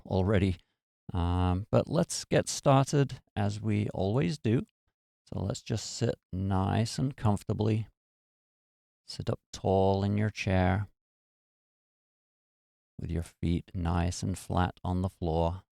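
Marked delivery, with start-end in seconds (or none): 5.2-15.6 calm, measured meditation guide; guided meditation. Acted. Host settling listeners into their chairs, calm guided meditation. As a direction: settle them gently into the posture.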